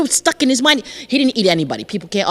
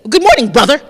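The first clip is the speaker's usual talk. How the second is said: bright cheeky greeting, louder; chicken greeting; 3 semitones higher, 5 dB louder than usual. Acted. Chicken greets the crocodile, sweetly chirping. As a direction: chirp a friendly hello. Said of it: "And Chicken says".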